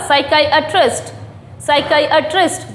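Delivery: "साइकियाट्रिस्ट" as sai-KAI-uh-trist in one go; "साइकियाट्रिस्ट" smoothly through all four syllables; joined-up pronunciation. Shown as a demonstration. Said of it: "आने लगा ना आपकी ज़ुबान पर".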